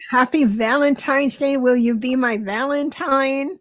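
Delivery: talking around a wad of gum; words slightly mushed by gum; chewing gum. Real, not acted. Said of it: "Oh, I've got gum in my mouth".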